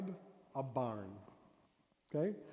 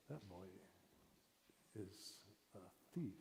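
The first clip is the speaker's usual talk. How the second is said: flat telling; 6 semitones lower, 16 dB quieter than usual. Shown as a demonstration. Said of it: "and you say".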